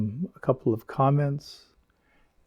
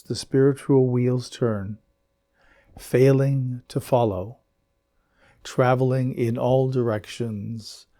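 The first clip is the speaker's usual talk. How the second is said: verse recitation. Acted. Reads Muman's verse aloud.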